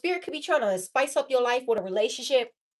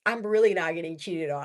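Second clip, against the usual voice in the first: softer, laughing out of breath; breathless laughing; 6 semitones lower, 3 dB quieter than usual. Real, not acted. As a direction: talk through the last of a laughing fit. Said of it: "Let me just catch my breath".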